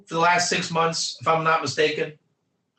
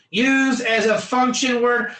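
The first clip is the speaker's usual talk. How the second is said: teacher barking the phrase for emphasis; emphatic call-out. Shown as a demonstration. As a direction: hammer the phrase home to the class. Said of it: "Used as a function word to indicate direction".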